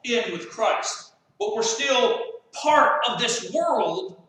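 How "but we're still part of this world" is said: loud and slow, leaning on part; slow emphatic preaching. Real, not acted. Preacher to congregation on being in the world, loud slow emphasis. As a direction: drive home "but we're still part of this world", loud with a heavy "part".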